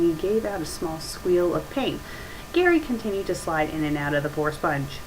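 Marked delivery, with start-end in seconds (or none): none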